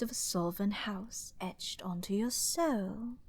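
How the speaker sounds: intrigued whisper. Acted. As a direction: drop to a whisper. Villain whispers discovery.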